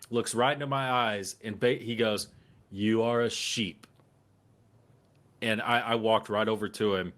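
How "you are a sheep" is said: slow, deliberate taunt, each word spaced; slow mock lecture. Man on the plane taunting passengers, slow and deliberate. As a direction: drawl it out like a smug preacher. Stranger taunts him outside bathroom.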